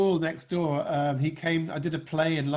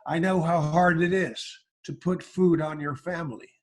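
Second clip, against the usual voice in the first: George W Bush impression. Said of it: "He'd say".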